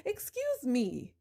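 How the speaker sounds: slow, drawn-out "excuse me", mock offended; sarcastic excuse me. Repeating it to the in-laws, slow and sarcastic. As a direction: drag "excuse me" out, rising in mock disbelief.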